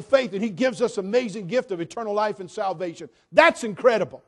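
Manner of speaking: loud, high, fervent preaching; full-force preaching. Real, not acted. Preacher proclaiming salvation to the congregation, fervent and loud.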